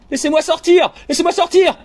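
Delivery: small, high-pitched desperate voice crying out; frightened cry. Acted. Tiny trapped voice in the narrator's heart, frightened high cry. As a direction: plead shrilly to be let out. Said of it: "Et elle crie".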